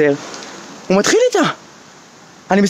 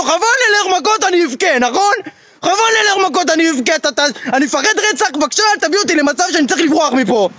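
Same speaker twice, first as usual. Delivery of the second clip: higher, pleading and rushed; scared pleading; 6 semitones higher than usual. Retold or imitated. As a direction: beg him not to fight, terrified. Threatens but pleads in fear. (תחינה מפוחדת ומהירה בקול גבוה)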